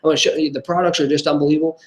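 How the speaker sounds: mock overeager salesman, fast; pushy sales pitch. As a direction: rattle it off like a desperate, pushy seller. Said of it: "That's a lot different posture than".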